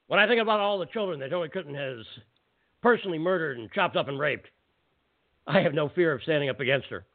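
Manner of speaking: slightly gruffer, lightly voiced ranting host; a hint of gruff conspiracy radio ranter; mild gruff impression of a shouting radio host; gruffer Alex Jones voice. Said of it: "I'll try to do it with a gruffer voice".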